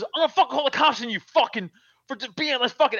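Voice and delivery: hurried mock threat; mock tough guy. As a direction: imitate a blustering tough guy in a rush. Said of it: "like a fucking tough guy".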